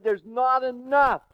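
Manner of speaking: voicing God. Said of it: "God said".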